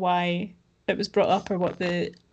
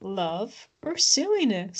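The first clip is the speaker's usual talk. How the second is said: quoting Ross; 3 dB quieter, much slower than usual. Retold or imitated. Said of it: "What is it Ross says?".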